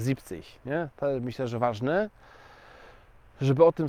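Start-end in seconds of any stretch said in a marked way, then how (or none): 0.1-0.4 "Siebzig" softly in two syllables, zip-tsish; correct shortened form. Shown as a demonstration. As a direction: repeat "Siebzig" quietly with a short "zip" start. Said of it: "tylko siebzig". („Siebzig” cicho, w dwóch sylabach: zip-cyś)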